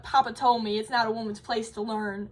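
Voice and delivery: lightly imitated Southern accent, voice catching as if close to tears; a hint of a sweet old Southern lady choking up over her lost dream; tearful Southern old lady. Retelling the old lady's memory of her father, in a light Southern accent with a tearful catch. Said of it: "'cause she's Southern".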